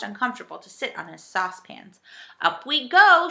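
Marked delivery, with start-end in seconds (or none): 2.4-3.3 high, excited shout. A narrator's reading. Joe in the rising basket, shouting. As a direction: call out as the ride takes off. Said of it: "shouted Joe".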